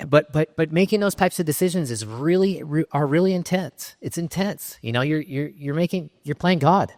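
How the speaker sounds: fighting back emotion, pitch climbing; emotional. Real, not acted. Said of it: "I'm emotional now about it".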